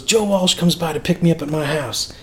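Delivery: lightly imitated Southern storyteller; southern accent. Singer telling backstage stories, imitated Southern accent. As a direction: put on a touch of Southern accent. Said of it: "He's got that southern accent".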